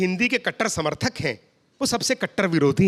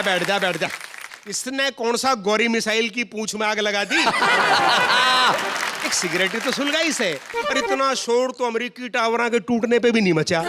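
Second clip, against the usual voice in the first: put-on Haryanvi accent; 3 semitones higher than usual. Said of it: "conductor बोला".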